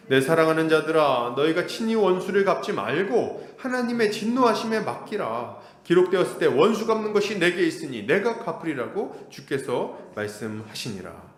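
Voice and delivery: measured read-aloud of the verse; scripture reading. Acted. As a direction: read it in unison, steady. Congregation reading Romans 12:19.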